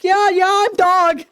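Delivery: high, eager doggy voice; lightly voiced eager pup; playful puppy voice. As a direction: chirp it like a happy puppy. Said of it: "Be like".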